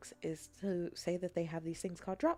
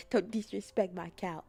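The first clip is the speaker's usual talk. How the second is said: mock scold. Same retort, now voiced.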